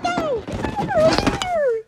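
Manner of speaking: high, loud, slow put-on parent voice; mock parent voice. Parents refuse to give their son a ride home, mock high voice. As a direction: drag it out like a dismissive parent.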